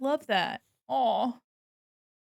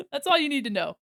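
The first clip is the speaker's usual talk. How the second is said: laughing; 5 semitones higher, 5 dB louder, faster than usual. Real, not acted. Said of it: "repeated line".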